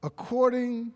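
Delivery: sudden loud, high exclamation. Acted. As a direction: burst out to grab the room. Preacher bursts out.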